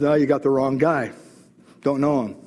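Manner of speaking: offhand denial. Acted. Peter's first denial, acted casually.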